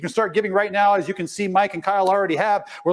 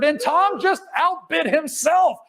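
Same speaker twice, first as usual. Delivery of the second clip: laughing; 7 semitones higher, slower than usual. Real, not acted. Tom outbids himself, laughing.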